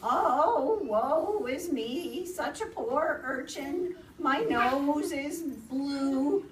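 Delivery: high, slow, hammed-up self-pity; lamenting hedgehog. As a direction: moan woefully, stretching the words. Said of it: "muttering to herself".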